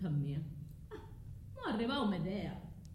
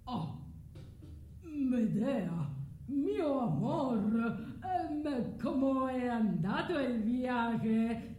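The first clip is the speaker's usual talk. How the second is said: Jason's smooth voice; 2 semitones higher, much slower than usual. Acted. Medea voices Jason greeting her.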